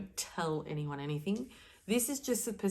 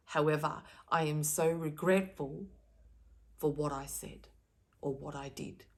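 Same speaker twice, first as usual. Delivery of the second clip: sincere validating apology. Shown as a demonstration. Apologizing to someone she hurt, with earnest remorse. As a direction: make the person feel truly heard. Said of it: "Can you hear my tone?".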